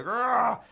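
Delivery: mock frustrated "grrrr"; angry growl. Imitating the girlfriend storming off after slamming the door, mock angry growl. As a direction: growl out a burst of exasperation.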